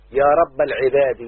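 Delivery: slow, weighty example phrase. Shown as a demonstration. Teacher illustrating the construct case, slow and deliberate. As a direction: lay each word down slowly. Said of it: "هنا مضاف اهو".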